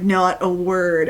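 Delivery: slow, stern big sister warning. Retold or imitated. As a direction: say it slow and firm like a strict older sister. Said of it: "my best stern big sister voice".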